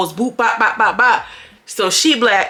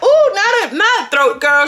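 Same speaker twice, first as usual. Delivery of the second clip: laughing mock; 10 semitones higher, 3 dB louder than usual. Mocking Chyna gagging after fight.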